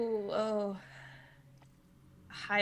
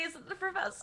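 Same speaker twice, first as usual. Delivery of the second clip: excited guess; 8 semitones higher, 6 dB quieter than usual. Retold or imitated. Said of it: "I was about to say".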